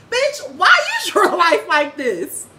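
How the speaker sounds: a slow shouted challenge that breaks into a laugh; laughing yell. Real, not acted. Telling off viewers who blame God, loud laughing shout. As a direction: yell it back at them, half laughing. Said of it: "I'm done yelling at you".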